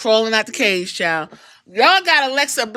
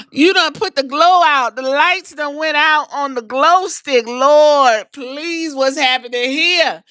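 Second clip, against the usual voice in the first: shocked fan; 2 semitones higher than usual. Retold or imitated. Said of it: "I said".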